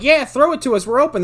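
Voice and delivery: high, loud calling out; eager mock shout. Kids waving arms to catch it, high eager shout. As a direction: holler for the pass like eager kids.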